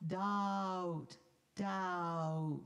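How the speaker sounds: doubt with its diphthong shown. Shown as a demonstration. Conductor showing the choir the diphthong. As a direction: glide through doubt. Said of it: "The diphthong".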